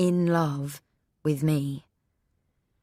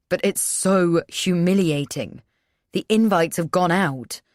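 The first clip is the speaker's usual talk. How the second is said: pleading; 3 semitones higher, 5 dB louder than usual. Acted. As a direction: beg her, close to desperate. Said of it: "He's pleading with me, nearly begging".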